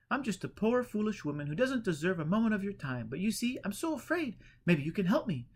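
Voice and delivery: fearful Eleanor. A narrator's reading. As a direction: beg for help in dread.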